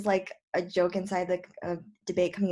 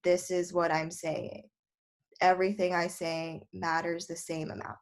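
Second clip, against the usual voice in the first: bored monotone reading, nothing stands out; flat monotone. Shown as a demonstration. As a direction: drone it out without any emphasis. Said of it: "So you don't wanna be like".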